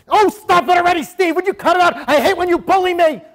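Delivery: high, loud whining protest; whiny victim. Retold or imitated. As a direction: whine like a pestered kid. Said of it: "he just gets so".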